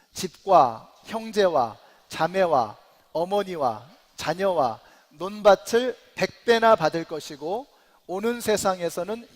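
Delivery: slow, measured congregational reading; scripture reading. Acted. Pastor leading the congregation in a verse, measured reading aloud. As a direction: read it out firmly, phrase by phrase.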